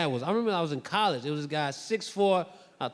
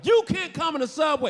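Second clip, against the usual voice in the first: loud, high retold order; acted guard's yell; mock stern shout; 8 semitones higher, 5 dB louder than usual. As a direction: bar the door with a raised voice. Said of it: "he thinks I'm getting tough".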